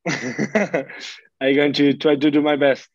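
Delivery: laughs, then answers through the laugh; laughing reply. Real, not acted. Player laughs at the host's joke about the Atlanta accent, laughing. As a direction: answer while still chuckling at the joke.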